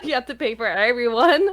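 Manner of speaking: giggling through the words; laughing. Real, not acted. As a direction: laugh while saying it. Laughing through the retold answer.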